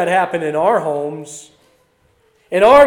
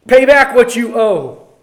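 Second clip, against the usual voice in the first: loud, harsh demand for the money; demanding shout; 4 semitones higher, 7 dB louder than usual. Acted. Slave choking his fellow slave for money, loud harsh demand. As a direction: bark it at the man by the throat.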